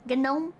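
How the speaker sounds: "Gnome" with a hard G before the N; sounded G. Shown as a demonstration. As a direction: say GNOME as guh-NOME. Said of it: "wish the G in gnome wasn't silent".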